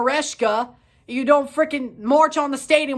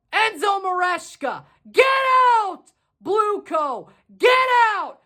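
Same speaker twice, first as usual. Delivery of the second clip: angry shout; 3 semitones higher than usual. Real, not acted. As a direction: bark it at him like a jeering fan. Ranting fan calling out player.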